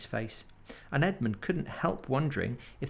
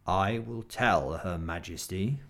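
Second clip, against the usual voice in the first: wolf voice; 4 semitones lower than usual. Acted. Wolf voice in story.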